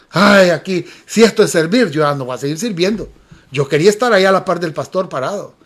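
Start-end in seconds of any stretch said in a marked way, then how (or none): 0.1-3.1 low grumble, fading softer and quicker; retold angry grumbling. New volunteer sweating at the gate, retold angry grumble. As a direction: grumble sulkily to yourself, imitating annoyance. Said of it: "y enojado yo".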